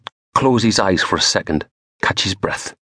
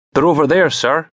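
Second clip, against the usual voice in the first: put-on young constable; 9 semitones higher than usual. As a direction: point him over eagerly. Shivering constable directing inspector.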